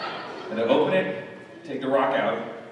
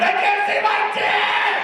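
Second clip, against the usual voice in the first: lower, slow, loud panicked cry; stoned panic shout; 8 semitones lower, 8 dB louder, slower than usual. Retold or imitated. Panicked soul leaving body.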